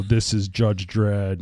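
low gravelly slow growl. Retold or imitated. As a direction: rasp it out slowly, low and gravelly. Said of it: "He's got this low, gravelly voice".

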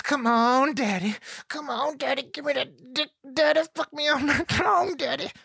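high breathy mock come-on, hammed-up; seductive woman voice. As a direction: camp it up as a woman begging her daddy. Mimics woman's seductive begging.

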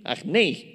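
agnei with the accent on the E; stress on the E. Shown as a demonstration. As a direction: lean slowly on the E of "agnei". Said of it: "con acento en la E".

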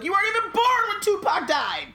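high, loud disbelief; incredulous yell. Retold or imitated. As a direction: shout it at the kid in your head. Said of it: "my brain is like".

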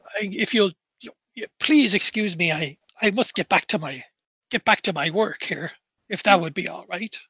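polite, halting, lightly voiced caretaker; rambling graveyard caretaker. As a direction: reminisce wistfully, then excuse yourself politely. Game master voices the caretaker.

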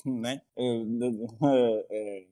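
repeats the words in a halting, flustered stammer; mild real nervous stutter. Real, not acted. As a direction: trip over the words as if still nervous. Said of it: "Dá pra ver pelo tanto que gagueja".

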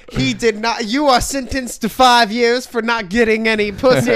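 a hint of a stern judge; lightly voiced judge handing down sentence. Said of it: "the judge is like".

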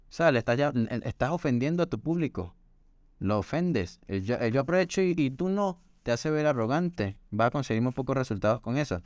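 mild mock scolding. Retells her own advice.

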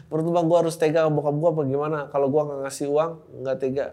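usual speaking voice

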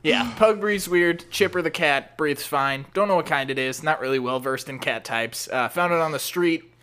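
low, hesitant creepy-neighbour voice; awkward neighbour. Acted. Plays awkward neighbour Daniel.

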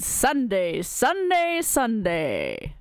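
rising promo chant on Sunday; monster truck ad. Pretend. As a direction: hype it like a truck rally. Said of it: "more of a Monster Truck thing".

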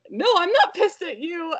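very high mock-sweet reassurance; reassuring mom. Mom answers her worried toddler, high sugary reassurance. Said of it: "And I was like".

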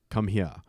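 "here" said as "heah", with no r; Southern "come heah", the r left off "here"; Southern dialect pronunciation. Shown as a demonstration. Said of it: "it's H E A H".

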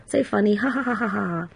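giggling like a schoolgirl. Real, not acted. Laughing at the shop memory, giggly. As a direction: let the laugh bubble over. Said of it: "I'm still smiling now".

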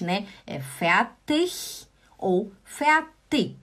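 slow, careful fertig ou fertig; standard German fertig. Shown as a demonstration. Teacher slowly giving the standard pronunciation. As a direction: spell out both ways of saying fertig slowly. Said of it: "Mas o Hochdeutsch".

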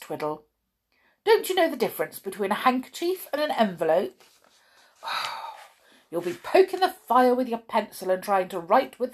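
scolding. Acted. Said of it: "she snorted".

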